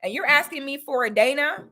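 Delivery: mock-offended, pitch jumps up then settles; lightly acted indignation; offended wife. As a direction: act out a wife taking offense. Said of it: "a woman feeling offended".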